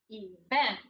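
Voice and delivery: "Event" with long E and stressed second syllable; accent on the end. Shown as a demonstration. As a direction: say "Event" as ee-VENT. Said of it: "the umph is on the end".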